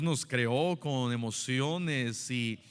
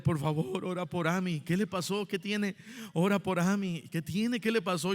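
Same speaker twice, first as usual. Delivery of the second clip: retelling a crying sister's plea, pitched up; mock frantic plea; 4 semitones higher than usual. Sister on the phone begging him to pray, mildly frantic. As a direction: voice a panicked sister begging for prayer, lightly.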